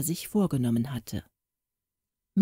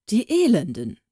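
sharp, louder indignant outburst; indignant cry; 5 semitones higher, 5 dB louder than usual. A narrator's reading. Warwick hearing of the plot, indignant cry. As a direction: spit it out in outrage. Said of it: "rief Warwick empört".

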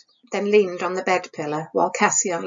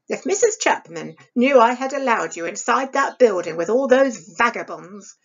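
stern, scolding stepmother, a little raised. Acted. Stepmother scolding Isabel over the candle, sharp and stern. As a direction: scold the girl like a harsh stepmother. Stepmother voiced in read story.

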